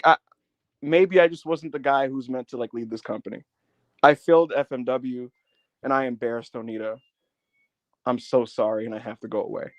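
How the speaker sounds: low, subdued imitation of an apology; retold tearful apology. Beaten wrestler apologizing to the media, understated low apology. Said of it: "apologizing to the media".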